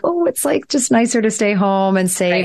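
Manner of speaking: lightly imitated inner voice, starting high; cautious feeling voice. Voicing the left brain's feeling side, lightly acted cautious voice. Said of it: "it's that feeling side".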